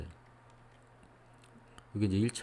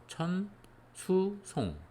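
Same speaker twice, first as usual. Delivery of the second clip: higher, separated teaching read-out; 10 semitones higher, much slower than usual. Shown as a demonstration. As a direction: call out each syllable on its own, pitched up. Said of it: "어떻게 읽어야 되겠죠". (한 글자씩 높여 끊어 읽기)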